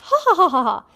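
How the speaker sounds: mock laugh. A narrator's reading. Reader voices Amy laughing over the coffee, mock laugh. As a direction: read the laugh as words, badly faked. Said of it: "Amy laughed".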